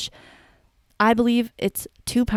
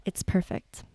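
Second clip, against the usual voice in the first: hushed quote; 7 dB quieter, slower than usual. Retold or imitated. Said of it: "I was like".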